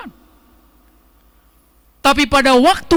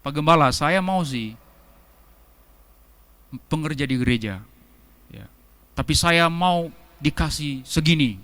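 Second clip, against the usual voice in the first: a lightly voiced church worker bargaining for pay, low and soft; mock demanding worker; 8 semitones lower, 5 dB quieter than usual. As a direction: mimic a worker haggling with the pastor. Jemaat minta bayaran pelayanan. (meniru pekerja gereja yang menawar upah)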